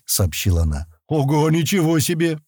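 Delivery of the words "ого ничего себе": higher-pitched impressed outburst; unrestrained wow; amazed exclamation. A narrator's reading. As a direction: blurt it out in amazement. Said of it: "не сдержавшись, воскликнул Стэн".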